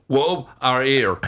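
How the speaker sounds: Rhea Bow said in reverse, slowly; backwards speech. Shown as a demonstration. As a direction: sound out the name backwards. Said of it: "give Scott one or two words".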